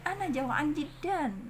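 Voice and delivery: "Ana jau'an jiddan" high and slow, endings vowelless; sukun ending. Shown as a demonstration. Teacher models spoken Arabic, slow with sukun. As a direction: say "jau'an" stopping on n. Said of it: "kita baca sukun aja".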